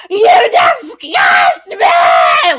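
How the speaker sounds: high, loud imitated screaming cry; mock scream. Podcaster imitating Vic's screaming at Ro, hammed-up shout. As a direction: shout it like Vic losing it. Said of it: "crying and screaming at the same time".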